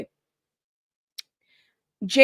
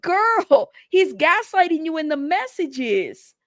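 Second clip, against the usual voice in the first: exasperated plea; 5 semitones higher than usual. Acted. Commentator imagining warning the woman about gaslighting, exasperated. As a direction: plead with her at a raised pitch.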